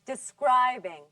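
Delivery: "Describing" with a strong, held middle syllable; stress on second syllable. Shown as a demonstration. Teacher models for class to repeat, "Describing" stressed on the second syllable. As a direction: hit the SCRIB in "Describing". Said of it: "Now repeat after me".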